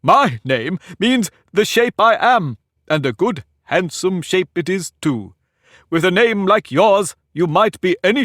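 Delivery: high, slow, lordly Humpty Dumpty voice; pompous egg lecturing a girl; haughty egg. Acted. Humpty boasting of his shape.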